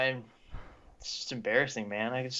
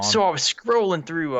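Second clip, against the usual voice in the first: louder, higher mock Aussie accent; amateur Australian accent; attempted Australian accent; 4 semitones higher, 5 dB louder than usual. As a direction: start a story in a badly faked Australian accent. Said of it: "natural Aussie accent already".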